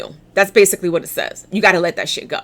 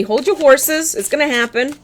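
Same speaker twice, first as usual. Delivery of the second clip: imitating spirit guides; 7 semitones higher than usual. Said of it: "You're telling me".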